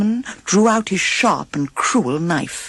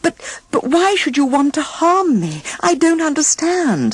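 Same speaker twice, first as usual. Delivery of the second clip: stammered in shock; 11 semitones higher than usual. A narrator's reading. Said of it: "stammered Snow White in shock".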